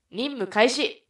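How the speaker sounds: high, loud mission-start command. Acted. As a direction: call out the start of the operation. 任務の開始を号令する. (高く力強い任務開始の号令)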